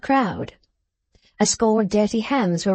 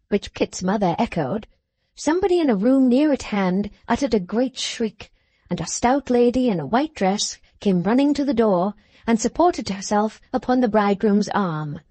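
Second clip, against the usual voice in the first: ordinary delivery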